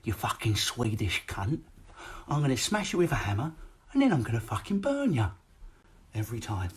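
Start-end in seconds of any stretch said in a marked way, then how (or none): 0.0-5.3 lightly voiced angry dad; swearing dad. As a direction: threaten the flatpack like a furious dad. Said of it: "swear at it before he burnt it".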